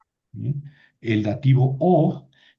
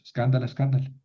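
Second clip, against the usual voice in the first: escándala back to a short accent on CAN; stress on third-last syllable; faster than usual. Shown as a demonstration. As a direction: hit CAN in escándala, endings light. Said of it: "Hay que acostumbrarse a eso".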